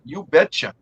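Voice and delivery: imitated Wisconsin accent; Leroy. Teasing Leroy about how he talks, mock Wisconsin accent. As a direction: put on a light Wisconsin twang. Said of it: "with his Wisconsin accent".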